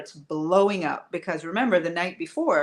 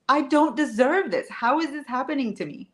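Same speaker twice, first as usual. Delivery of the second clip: higher, aggrieved inner voice; self-pitying lament; 7 semitones higher than usual. Retold or imitated. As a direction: ask it as if it's unfair, pitched up. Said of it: "all the things we say to ourselves".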